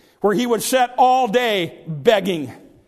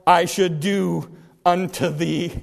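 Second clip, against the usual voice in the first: slow, solemn question; unhurried, dropping low at the end; Jesus; 3 semitones lower, slower than usual. Retold or imitated. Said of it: "He says".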